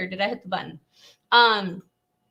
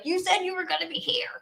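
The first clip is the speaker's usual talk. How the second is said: mock complaint; 9 semitones higher than usual. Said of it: "be like".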